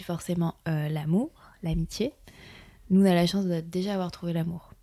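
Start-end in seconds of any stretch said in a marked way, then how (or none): 2.9-4.7 sensual voice. Real, not acted. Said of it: "pourquoi tu prends une voix sensuelle comme ça?".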